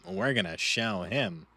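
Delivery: slow, menacing vow with a put-on timbre; ominous threat. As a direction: growl it out like a villain promising revenge. Repeats the hype line.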